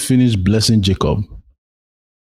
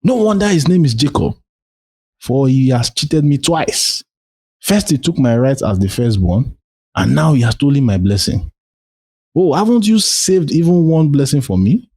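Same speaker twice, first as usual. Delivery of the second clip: higher, outraged exclamation; exclaiming; 6 semitones higher than usual. Acted. Esau crying out to his father about Jacob's cheating, raised and outraged. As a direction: cry out at the cheat. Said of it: "Esau exclaimed".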